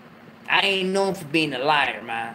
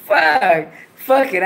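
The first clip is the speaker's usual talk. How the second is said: frustrated outburst; 8 semitones higher, 7 dB louder, much slower than usual. Real, not acted. Frustrated, breaking into laughter.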